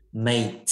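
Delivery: "mate" said with the English letter-A vowel; MATE with a long A. Shown as a demonstration. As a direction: say "mate" to rhyme with "late". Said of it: "Thì mình sẽ đọc nó là chữ". (đọc "mate" với âm chữ A)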